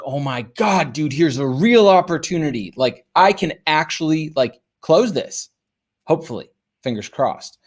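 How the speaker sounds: retold excitement, easing off at the end; light thrill at a sudden real chance; excited. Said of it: "I was that excited".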